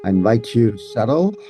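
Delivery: unhurried phrases with long pauses to settle; guided meditation. Acted. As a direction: guide listeners gently into the body, pausing between phrases.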